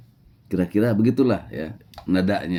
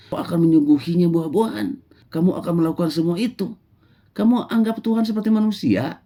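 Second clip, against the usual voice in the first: high mocking scolding voice; scornful rebuke; 10 semitones higher than usual. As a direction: sneer at his naive ideas. Musa rebukes the shepherd. (Musa mencela dengan nada mengejek)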